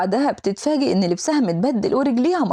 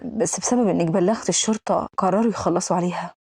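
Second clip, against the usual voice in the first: slightly lowered voice for the controlling man; composed male lead; 3 semitones lower than usual. Acted. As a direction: explain it coolly, a touch low. Voices the man explaining the organization. (صوت البطل الهادي المنخفض شوية)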